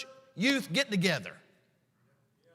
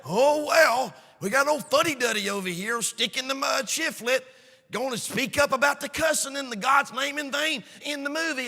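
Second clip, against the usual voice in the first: mocking sing-song; 2 semitones higher, 4 dB louder than usual. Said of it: "And I got that".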